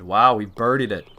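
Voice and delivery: pleased burst of surprise; excited. Real, not acted. Surprise birdie on tough hole.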